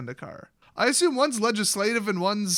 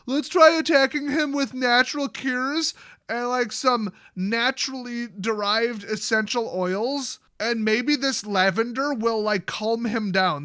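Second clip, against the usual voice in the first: higher and louder, slowing into a dreamy mock-earnest drawl; mock hippie voice; 4 semitones higher, 3 dB louder than usual. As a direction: parody a naive nature lover selling essential oils. Mocking Nissa's naturalist plan.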